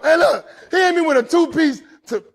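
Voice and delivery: loud, high, laughing through it; real laughter in the voice; laughing retelling. Real, not acted. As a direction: crack up while telling. Laughing at the memory.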